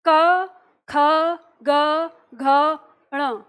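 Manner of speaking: क ख ग घ ण, each said apart from the throat, slowly; clear throat sounds. Shown as a demonstration. Teacher models क ख ग घ ण from the throat. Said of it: "तो शब्द है आपका".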